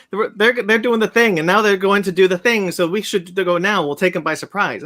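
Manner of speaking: badly faked Poirot accent, easing off toward the end; lightly hammed-up attempt at a Belgian Poirot accent; horrible Poirot accent. Moviegoer mimicking Poirot planning an attack, horrible fake accent. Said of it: "that's a horrible accent".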